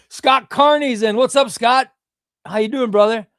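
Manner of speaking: high, loud, delighted hello to a viewer; light up as a friend joins the stream; big cheerful shout-out; excited greeting. Real, not acted. Greeting a viewer who joined.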